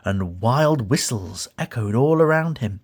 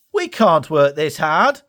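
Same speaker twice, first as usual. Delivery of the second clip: Dash voice; 3 semitones higher, 4 dB louder than usual. Acted. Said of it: "said Dash".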